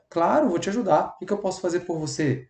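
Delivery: empathetic reply. Shown as a demonstration. Empathetic worker answering a request, gentle offer. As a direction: offer help kindly and softly. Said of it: "quando você é empático".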